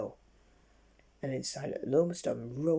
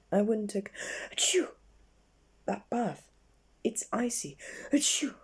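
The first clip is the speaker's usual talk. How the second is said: warning; 8 semitones higher than usual. Acted. Mister Sneeze warning Miss Stubborn off the icy path, high and sneezy. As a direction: warn her between sneezes. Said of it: "he warned".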